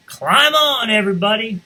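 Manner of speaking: high, loud cheerful call; excited shout. Acted. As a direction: shout it out to the whole barnyard. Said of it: "shouted the duck".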